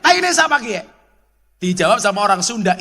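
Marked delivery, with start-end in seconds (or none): 0.0-0.8 loud, higher ngapak yell of disgust; retold shout. Man from ngapak country shouting after stepping in dung, loud yell. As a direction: yell it out, outraged at the mess. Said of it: "orang ngapaknya teriak".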